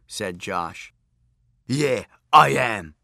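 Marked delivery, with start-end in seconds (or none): 1.6-2.9 slow sheepish demon voice; busted demon. A narrator's reading. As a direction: admit it like a caught demon. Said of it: "said the demon, busted".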